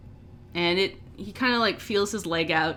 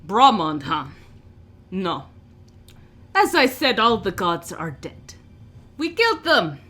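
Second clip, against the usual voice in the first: a hint of a scornful orc, rising to a loud sneer; 6 dB louder than usual. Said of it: "he, like, storms out and goes".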